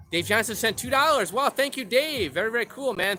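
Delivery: shout-out thanks with a jolt of joy; happy surprise at a small tip; excited thanks. Real, not acted. Reads out a viewer donation.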